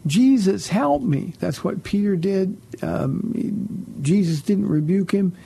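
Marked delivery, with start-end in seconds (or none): 0.1-1.3 high, louder cry for help; calling out. Retold or imitated. Host shows calling on Jesus in need, crying out. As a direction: imitate an urgent plea, pitched up. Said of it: "appropriate to call out".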